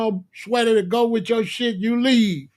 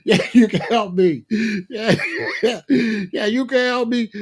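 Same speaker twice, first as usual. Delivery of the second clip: laughing; 2 semitones higher than usual. Retold or imitated. Laughing retort to clerk.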